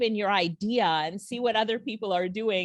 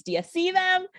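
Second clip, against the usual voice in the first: teasing question; 9 semitones higher than usual. Real, not acted. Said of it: "I'm just showing you the possibilities".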